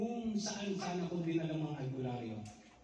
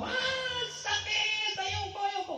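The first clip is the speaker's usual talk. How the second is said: high pained cry, much higher and louder; retold childhood scream; 4 dB louder, much slower than usual. Pastor reenacts crying out as a boy in pain, high yelling. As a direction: shriek like a hurt child. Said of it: "napasigaw ako".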